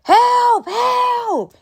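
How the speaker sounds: high, loud call for help; loud cry for help. Shown as a demonstration. Showing how she should have called neighbours, loud and high. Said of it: "Other people could have helped you".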